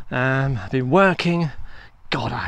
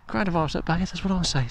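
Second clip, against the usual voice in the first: catchphrase; 3 dB quieter, faster than usual. Shown as a demonstration. Vlogger to viewers, signing off with a jingly tagline. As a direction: sell it as your catchphrase.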